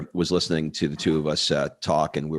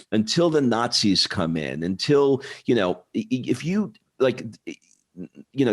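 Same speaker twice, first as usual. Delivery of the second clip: put-on light Italian accent, pitched higher, lecturing; a touch of Italian accent, raised pitch, telling Americans off; imitating a broken Italian accent; 5 semitones higher than usual. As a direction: mimic the Italian bartender's accent lightly, a bit preachy. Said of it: "he said in his broken Italian accent".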